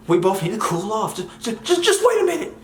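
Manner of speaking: mock panic climbing to a high squeal; Myron crying. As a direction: stammer it out like a hammed-up crybaby. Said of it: "he's really over there crying and throwing a fit".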